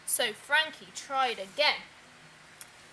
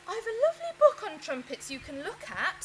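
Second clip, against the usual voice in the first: hopeful; 6 semitones higher, 4 dB louder than usual. Acted. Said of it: "said his mother hopefully".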